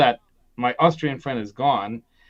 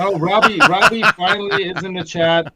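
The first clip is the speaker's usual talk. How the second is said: excited greeting; 4 semitones higher, 7 dB louder than usual. Real, not acted. Greeting newcomer in chat.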